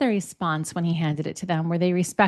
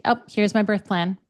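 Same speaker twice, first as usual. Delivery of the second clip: gently assertive. Acted. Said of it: "if it's kind of gently assertive".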